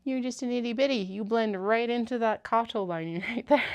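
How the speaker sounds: cooing at a kitten; pet-talk voice. Real, not acted. Talking to cat.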